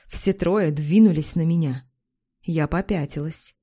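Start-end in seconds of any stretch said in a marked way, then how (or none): none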